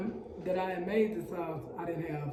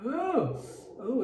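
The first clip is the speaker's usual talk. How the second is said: hot food in mouth; 6 semitones higher than usual. Real, not acted. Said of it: "it's hot".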